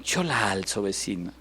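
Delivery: loving reassurance to neighbor. Retold or imitated. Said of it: "usted pueda con amor decir".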